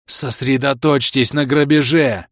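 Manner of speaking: slow, loud, cracked command; hoarse order. Acted. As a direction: order it with a worn-out voice. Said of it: "сорванным голосом велел я".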